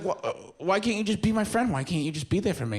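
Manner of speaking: high, whiny plea; begging his friend for support; mock pleading. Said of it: "And I was like".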